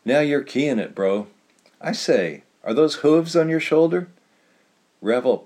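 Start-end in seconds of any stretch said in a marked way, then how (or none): 0.0-4.1 lightly voiced old man, rising to an excited question; Tug egging on. A narrator's reading. Tug urging Revel on about his hooves. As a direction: cheer your buddy on, then marvel.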